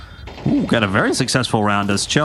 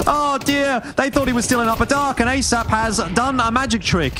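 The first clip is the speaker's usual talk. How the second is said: excited; 10 semitones higher than usual. Real, not acted. Caster hyping a surprise play.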